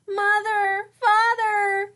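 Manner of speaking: high, loud call through tears; lost girl calling out for mother and father; crying out. Acted. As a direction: cry out for your parents. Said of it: "she cried".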